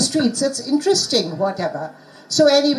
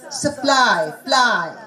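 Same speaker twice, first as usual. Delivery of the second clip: "Supply" with weight on PLY, then that syllable alone; stressed syllable demo; much slower than usual. Shown as a demonstration. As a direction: lean on the end of "Supply", echo it as "ply". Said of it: "I want the syllable".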